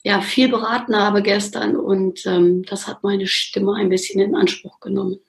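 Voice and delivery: hoarse, grating voice; raspy voice. Real, not acted. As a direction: talk through a rough, strained throat. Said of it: "Reibeisenstimme seit gestern".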